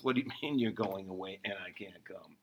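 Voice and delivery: laughing through Peter's puzzled question; amused Peter quote. Retold or imitated. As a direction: let a chuckle break into the question. Same Peter quote retold, laughing.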